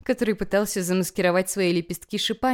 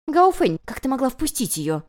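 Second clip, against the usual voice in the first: sharp furious hiss; 6 semitones higher, 4 dB louder than usual. A narrator's reading. Tantan hisses at Gaofen for letting the guest in. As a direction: hiss the reproach at her. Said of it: "прошипела Тантан".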